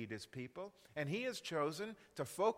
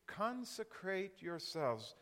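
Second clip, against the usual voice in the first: slow, weighty command; solemn divine command, slowly; 3 semitones higher, slower than usual. Acted. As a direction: lay each word down slowly.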